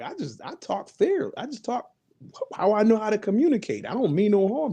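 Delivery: mock Northern accent. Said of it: "Why do you talk so northern".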